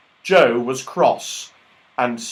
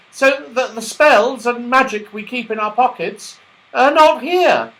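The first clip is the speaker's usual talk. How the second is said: Santa Claus voice; 12 semitones higher, 7 dB louder than usual. Acted. Mister Whiskers explains.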